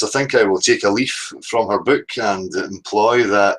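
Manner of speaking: slow, put-on posh English voice, lightly done; a hint of plummy posh. Host borrowing a caller's mimicry, mock posh voice. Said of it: "mimicking my posh voice".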